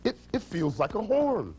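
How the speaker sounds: lightly acted lion making a discovery; puzzled find, pitched a little up; mild surprise. Lion finds strange object.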